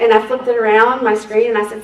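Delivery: usual speaking voice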